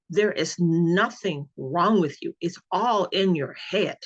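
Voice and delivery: "nothing wrong" and "all in your head" slowed and weighted; emphatic angry doctor. Retold or imitated. Doctor telling patient it's imaginary, slow hard emphasis on "nothing" and "all". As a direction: imitate his deliberate, word-by-word emphasis on "nothing" and "all". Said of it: "it was the emphasis that he put on".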